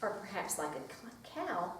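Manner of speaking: lively picture-book read-aloud; reading to children. Acted. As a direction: read it to a circle of preschoolers.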